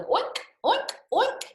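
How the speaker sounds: high loud oinks; high playful oinking; pig oinks. Acted. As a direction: oink like a piglet. Pig noises.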